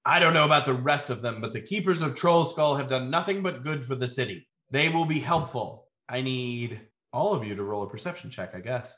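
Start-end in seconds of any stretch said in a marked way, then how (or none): 0.1-5.9 mildly raised, brisk protest; understated shout from a masked lord. Acted. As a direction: speak out to the room, half-shouted. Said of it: "you hear that Masked Lord shout".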